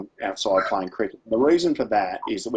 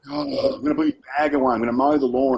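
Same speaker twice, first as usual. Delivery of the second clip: put-on sulky teen reply; 4 semitones higher than usual. Teen son reciting chores to mum, grudging. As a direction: rattle it off like a fed-up fifteen-year-old.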